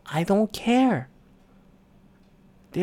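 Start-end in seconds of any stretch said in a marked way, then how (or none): 0.1-1.1 slow dismissive. Retold or imitated. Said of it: "I just go".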